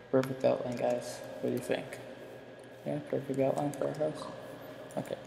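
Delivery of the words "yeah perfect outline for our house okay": slight lisp from a retainer; wearing a retainer. Real, not acted. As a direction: talk around a spring retainer. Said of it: "I may have a slight speech impediment because I have this new retainer".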